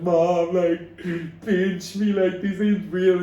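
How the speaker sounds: high, loud, disbelieving; overwhelmed call to mom. Retold or imitated. Retelling the call to his mom in high, giddy disbelief.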